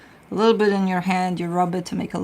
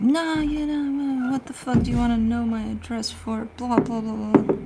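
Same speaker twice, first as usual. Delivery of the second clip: put-on higher, whiny drunk voice; mock drunk passenger; 5 semitones higher than usual. Drunk passenger refusing to give the driver his address, whiny. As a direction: play the belligerent drunk fare. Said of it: "And he's like".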